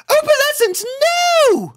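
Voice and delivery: high, loud cry to stop the cat; alarmed high shout; Rarity shouting. A narrator's reading. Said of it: "Rarity speak those words".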